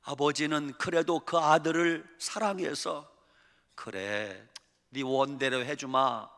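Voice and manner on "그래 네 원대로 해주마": loving father. Acted. Father grants son's wish.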